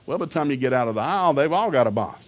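usual speaking voice

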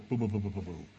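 low, soft rumbling booms; imitated porch vibration. Porch shaking from wrestling inside, imitated as low booms. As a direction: make a quick muffled thudding noise. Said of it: "I could feel it vibrate".

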